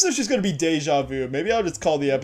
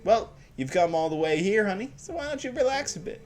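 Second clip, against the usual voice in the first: put-on southern accent. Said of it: "a southern accent with a female voice".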